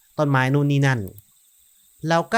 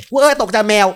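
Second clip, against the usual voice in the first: loud, high startled yelp; sudden jump-scare shout; real startle; 7 semitones higher, 8 dB louder than usual. Real, not acted. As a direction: blurt it out, spooked by a cat.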